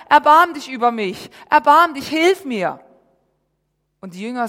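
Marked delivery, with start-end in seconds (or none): 0.1-2.8 desperate, louder begging; mother begging Jesus loudly for help; loud plea. Acted. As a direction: cry out after him for mercy. Acts the woman pleading.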